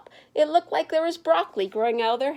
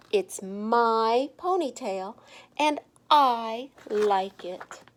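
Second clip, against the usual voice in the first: slow, deliberate, a little proud; slow defiant reply; much slower than usual. Acted. Stephanie to the teasing kids, slow and defiant. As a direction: take your time, owning every word.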